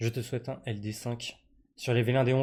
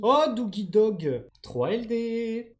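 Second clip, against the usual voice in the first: exclamation aiguë, forte et étirée; cri de joie; 9 semitones higher, 4 dB louder, much slower than usual. Real, not acted. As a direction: exulter en allongeant les mots. Réaction à un tirage réussi. (cri de joie étiré)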